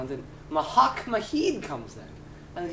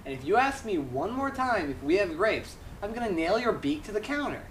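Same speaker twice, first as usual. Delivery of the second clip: hammed-up fed-up bartender; mock-angry threat; 3 semitones higher than usual. Fed-up bartender threatening a duck, mock angry.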